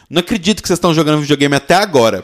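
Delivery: scolding mother. Retold or imitated. Mother scolds kids gaming late.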